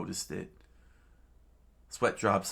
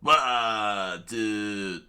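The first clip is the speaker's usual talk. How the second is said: startled yell; 5 dB louder than usual. Acted. Acted yell in the story.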